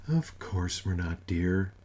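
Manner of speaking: put-on calm him like a child; soothing. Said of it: "patting it".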